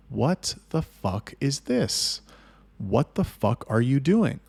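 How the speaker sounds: slow, stretched-out indignant demand; retold disbelief, drawing the words out; indignant confrontation. Confronting the chatter over a screenshot, indignant.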